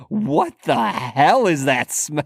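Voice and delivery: emphatic retold outburst, HELL stretched; earnest question. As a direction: imitate a seriously baffled question. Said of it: "as a more serious question".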